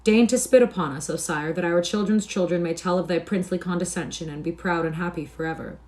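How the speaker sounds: loud, hammed-up pleading; mock-grovelling appeals, each starting strong and falling away; mocking supplication. A narrator's reading. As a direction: beg with exaggerated reverence. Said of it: "ironical wailings and mocking supplications".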